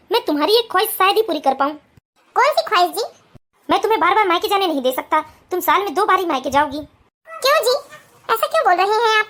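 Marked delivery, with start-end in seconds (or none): 3.7-6.8 lower, calm husband voice; lowered male voice, steady. Acted. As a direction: explain patiently to your new wife. Husband sets rule for wife.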